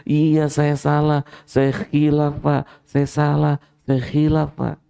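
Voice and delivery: high, slowed, mock-sobbing admission of guilt; tearful confession. A guilty man confessing to the judge, mock-tearful and pleading. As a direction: confess to the judge as if close to tears.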